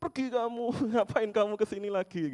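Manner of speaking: high mock yell from inside the house; imitating a grandma yelling; yelling old woman. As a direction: shout him off as a furious grandma. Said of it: "Di dalam udah teriak-teriak".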